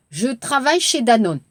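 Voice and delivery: brisk, natural speed; fast natural take. Shown as a demonstration. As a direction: run it together quickly. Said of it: "Regardez l'exercice". (빠르게 자연스럽게 읽기)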